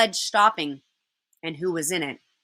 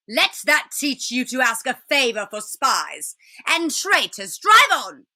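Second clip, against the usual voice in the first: cold witch, ending in a command; 2 semitones higher than usual. Acted. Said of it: "said the witch".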